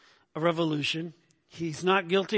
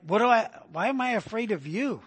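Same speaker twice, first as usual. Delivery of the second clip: incredulous question, pitched up; disbelief; 4 semitones higher than usual. Acted. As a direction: act out scornful disbelief at him. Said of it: "a tone of disbelief".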